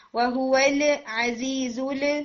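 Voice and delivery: وَهُوَ الْعَزِيزُ ال with the l released early; wrong bouncing lam. Retold or imitated. Teacher repeating the students' mistake, quick echoing lam in وَهُوَ الْعَزِيزُ ال. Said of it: "نہیں".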